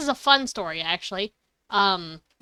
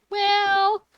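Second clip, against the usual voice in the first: laughing; 9 semitones higher, slower than usual. Retold or imitated. Quoting self, laughing.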